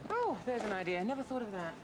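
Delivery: dry mock surprise at an obvious idea; sarcastic. Real, not acted. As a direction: say it with biting sarcasm. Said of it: "No need to be sarcastic".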